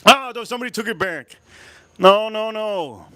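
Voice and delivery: high-pitched cry of dismay. Real, not acted. Reacting to something taken back, high dismayed protest.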